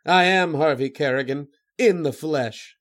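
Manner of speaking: gloating villain. Acted. Writer reading his villain revealing himself, gloating. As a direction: announce yourself with a touch of menace. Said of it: "The other laughed".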